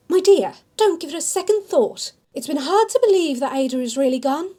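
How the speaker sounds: a hint of a fond old auntie comforting her; kindly older woman. Older shopkeeper Diana consoling grieving Amelia, lightly voiced motherly.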